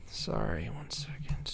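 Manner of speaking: whispering off the phone; whispered aside. Real, not acted. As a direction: murmur it off-mic, voiceless. Aside while on hold.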